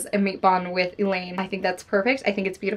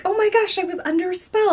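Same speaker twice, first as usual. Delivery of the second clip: much higher, hammed-up breathless revelation; fake-out gasp; 11 semitones higher than usual. A friend acting out the twist, hammed-up high gasp. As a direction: play a heroine faking a sudden awakening. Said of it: "she does the fake out".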